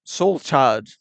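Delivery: an overdone, mock-dramatic Soul Chud; exaggerated. Shown as a demonstration. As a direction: ham up the words Soul Chud. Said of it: "really exaggerated".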